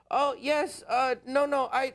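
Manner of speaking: flustered caller. Retold or imitated. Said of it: "he just goes".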